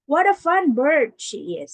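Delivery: delighted exclamation. Shown as a demonstration. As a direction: say it with strong feeling. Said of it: "the tone matters".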